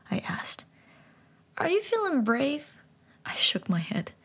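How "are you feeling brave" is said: talking frog gently explaining; high frog voice. Acted. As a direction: speak like a wise little frog. Frog asks boy.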